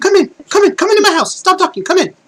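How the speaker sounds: eager game-character voice, very high and loud.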